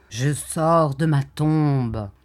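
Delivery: slow, hollow ghostly voice; sepulchral voice. Acted. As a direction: speak like a corpse risen from the grave. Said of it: "d'une voix sépulcrale". (voix sépulcrale lente)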